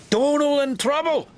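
high, startled question; alarmed cry. A narrator's reading. Douglas hearing his twin is in trouble, startled cry. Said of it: "Douglas cried".

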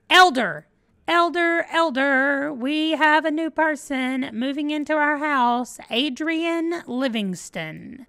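high, excited calling out; excited announcement. Real, not acted. Player finally spots an elder for the house, excited. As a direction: announce the find with rising excitement.

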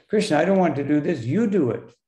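quick, mildly insistent protest; challenging. Acted. Arjuna tells Krishna to do it himself, challenging. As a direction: lightly act out handing the job back. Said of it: "he's challenging Krishna".

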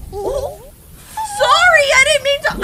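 high laughing sorry; laughing apology. Real, not acted. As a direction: giggle through the apology.

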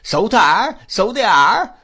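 loud, high-pitched hearty agreement; excited cry. A narrator's reading. Ham backs up his uncle's praise, excited cry. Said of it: "cried Ham".

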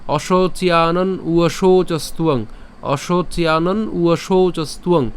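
"অশোচিয়ানন উয়শৌচস্তুয়ং" in slow connected recitation; whole phrase joined. Shown as a demonstration. Teacher giving the full phrase, slow unbroken recitation. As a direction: link every part, long vowels held. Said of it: "তাহলে পুরোটা করলে".

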